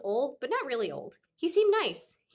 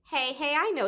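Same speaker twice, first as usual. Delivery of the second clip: loud, eager sudden idea; excited; 7 semitones higher, 5 dB louder than usual. Acted. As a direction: burst out with a bright idea. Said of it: "said Dad excitedly".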